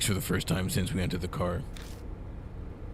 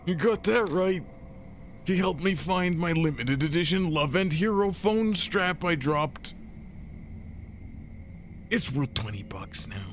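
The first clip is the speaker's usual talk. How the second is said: high squeaky character voice; 11 semitones higher than usual. Acted. Same character voice returns.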